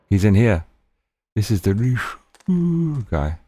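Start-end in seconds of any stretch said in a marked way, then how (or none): 1.4-3.4 slow dragging zombie voice; zombie impression. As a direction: drag the words out like a zombie. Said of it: "Resident Evil zombie impression".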